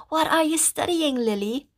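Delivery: high whispered audience voice; audience member voice. Pretend. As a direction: whisper as a curious fan.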